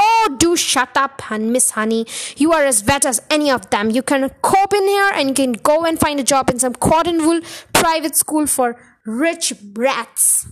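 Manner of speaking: loud domineering Trunchbull voice; overbearing headmistress lecturing; bossy headmistress. Acted. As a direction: lecture the teacher like a bully.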